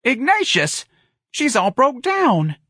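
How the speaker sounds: very high, slow, pleading sorrow; said sadly. A narrator's reading. Mother defends the old lady to her son, sad high plea. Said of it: "Missus Riley said sadly".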